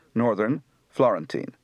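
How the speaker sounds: Northern said orðern, Florentine with a rolled Italian r; Florentine Italian accent. Shown as a demonstration. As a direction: speak Northern, Florentine like a Tuscan. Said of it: "Translation done in Italian accents".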